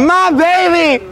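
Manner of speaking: high, drawn-out wail; real high-pitched lament, words stretched long; distraught wailing. Real, not acted. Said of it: "I'm actually so sad".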